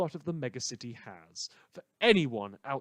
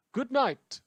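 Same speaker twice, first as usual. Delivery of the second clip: loud sign-off; 11 semitones higher, 6 dB louder than usual. Acted.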